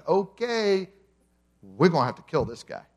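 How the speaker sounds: lightly voiced plotting official; a hint of a sly plotter; scheming leaders. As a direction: mutter it like conspirators deciding. Jewish leaders plot, voiced quote.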